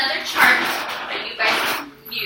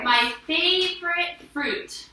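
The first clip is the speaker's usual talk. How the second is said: excited; 5 semitones higher, much slower than usual. Shown as a demonstration. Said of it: "Because I'm excited that they have".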